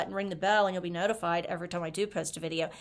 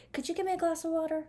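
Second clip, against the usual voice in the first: mock pet-talk plea; 10 semitones higher, faster than usual. Asks her cat for water.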